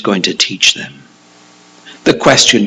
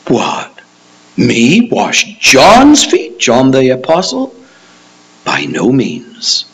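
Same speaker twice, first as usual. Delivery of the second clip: indignant refusal; slower than usual. Acted. Acts a disciple refusing indignantly.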